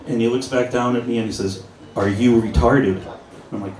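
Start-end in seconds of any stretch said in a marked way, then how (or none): 2.0-3.0 slow, lightly imitated Chinese accent; a hint of a Chinese accent. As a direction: repeat the waiter's question in his thick Chinese accent, slowly. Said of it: "just through his thick accent".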